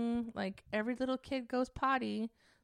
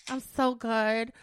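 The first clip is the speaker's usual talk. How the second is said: drawn-out, louder mock boast; boastful contestant; 5 dB louder, much slower than usual. Singer imitating a ridiculed show contestant, slow mock bragging. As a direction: stretch it out like a cocky auditionee. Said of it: "There's this girl, and she's like".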